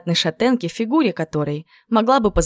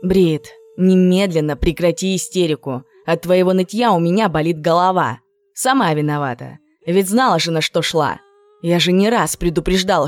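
firm, lightly voiced scolding older friend; a hint of an impatient lecture; stern friend scolding. Older friend scolding crying Brit, firm and impatient.

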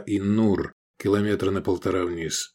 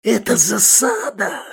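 high, slow terrified cry; panicked yell; 13 semitones higher, 4 dB louder, slower than usual. A narrator's reading. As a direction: scream out the ambush. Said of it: "завопил Манюта".

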